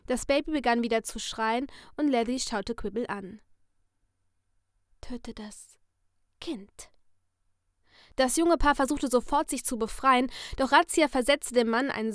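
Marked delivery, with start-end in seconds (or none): 5.0-6.9 sinister masked figure in a soft whisper; menacing whisper from behind a mask; creepy whisper. Acted. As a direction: purr the threat like a friendly killer. Letty orders the killing.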